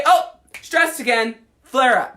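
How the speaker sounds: the body gleefully flaring up; mock body voice. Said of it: "you stub your toe".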